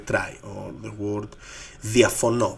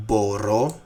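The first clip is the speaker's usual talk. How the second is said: μπορώ with the weight on the last syllable, ρώ; stress on final omega. Shown as a demonstration. Teacher modelling a type B two verb, μπορώ stressed at the end. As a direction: land firmly on the ρώ of μπορώ. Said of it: "they have stress on the omega".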